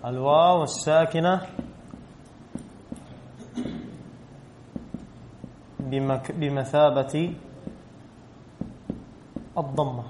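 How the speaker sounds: teacher dictating a grammar rule slowly to the class; slow dictation. Shown as a demonstration. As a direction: rule spelled out slowly, pausing before the last word. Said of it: "نضيف هذه قواعد الآن".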